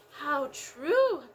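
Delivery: big kangaroo agreeing. Acted. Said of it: "said the big kangaroo".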